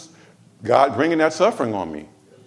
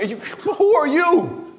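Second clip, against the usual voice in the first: stern prophet voice; 13 semitones higher, much slower than usual. Acted. Preacher voicing rebuking prophet.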